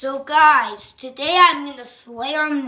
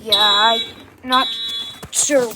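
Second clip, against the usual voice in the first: shouting over fire alarm. Real, not acted. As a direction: call out above the noise. Alarm blaring in the building.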